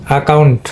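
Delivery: অ্যাকাউন্ট opened with an "a" (আ) sound, not "æ"; "আ" sound first. Shown as a demonstration. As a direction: say অ্যাকাউন্ট as "a-KAUNT". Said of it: "এখানে কিন্তু আ sound হবে".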